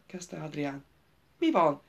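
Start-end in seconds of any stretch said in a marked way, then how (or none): 1.4-1.8 puzzled. A narrator's reading. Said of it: "nézett rá a lovag értetlenül".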